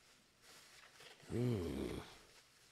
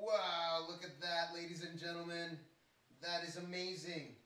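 hushed awe; 8 semitones higher, 13 dB quieter than usual. Real, not acted. Awed showing the gift.

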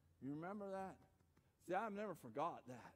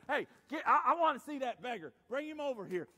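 raised, commanding call; Jesus; 5 semitones higher, 9 dB louder than usual. Acted. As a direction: call out an order to the crowd. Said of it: "Jesus stops and says".

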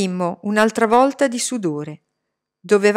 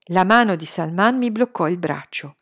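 usual speaking voice

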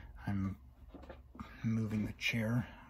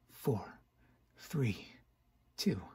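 whispered countdown; 6 dB quieter, slower than usual. Acted. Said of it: "counting down".

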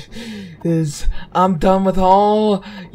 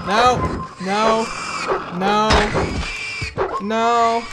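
slow, raised "I said no"; stubborn shout; 4 semitones higher, slower than usual. Real, not acted. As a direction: shout it slowly, refusing. Player refusing angrily at game.

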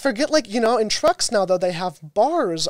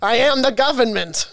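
higher-pitched New Jersey accent; firmly put-on New Jersey accent; 4 semitones higher, 4 dB louder than usual. Shown as a demonstration. Showing a friend the line, New Jersey accent. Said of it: "I want you to do New Jersey".

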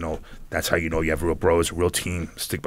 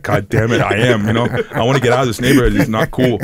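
mock complaint; 2 semitones higher, 5 dB louder than usual. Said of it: "I'm like".

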